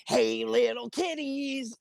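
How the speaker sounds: high, drawn-out radio shout-out; radio singer's greeting. Retold or imitated. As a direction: stretch it out like a creepy kiddie-song intro. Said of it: "all I hear come over the radio is".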